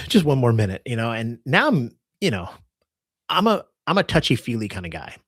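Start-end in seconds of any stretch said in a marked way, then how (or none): 0.1-0.8 mock tearful plea. Acting out the crying passenger.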